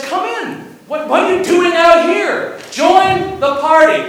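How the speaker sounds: urgent invitation. Retold or imitated. Father pleading with son outside.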